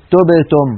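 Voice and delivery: تبتم said "tob-tom"; تبتم with "o" in place of "u"; faulty damma. Shown as a demonstration. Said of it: "يعني لا نقول".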